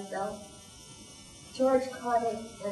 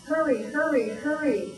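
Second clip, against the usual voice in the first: higher, louder urgent calls; 4 semitones higher, 4 dB louder than usual. Acted. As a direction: rush them along. Firemen urging each other.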